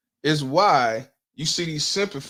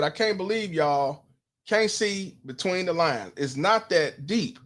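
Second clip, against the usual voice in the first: slow mocking read; 3 semitones higher, slower than usual. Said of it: "This woman said".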